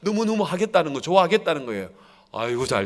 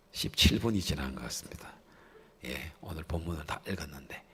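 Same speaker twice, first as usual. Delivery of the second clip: whispered aside; 11 semitones lower, 12 dB quieter than usual. Real, not acted. Sheepish aside about running long.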